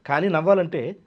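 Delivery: ordinary talk, nothing marked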